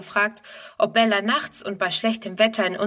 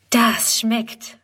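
whispered praise. Acted. Girl praising the horse, whispering. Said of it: "lobt Friedrun".

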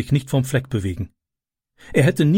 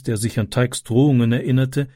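ordinary delivery, nothing marked

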